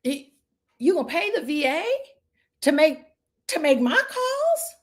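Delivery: rising, incredulous question climbing high at the end; retold disbelief. Agent asked to pay for VAs, replying in shocked disbelief. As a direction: act floored by the offer. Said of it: "I said".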